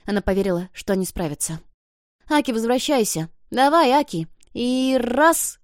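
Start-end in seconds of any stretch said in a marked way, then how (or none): 2.3-5.6 high, loud urging cry; heave-ho calling. A narrator's reading. Children pulling Aki back, rallying shout. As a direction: call out while hauling together.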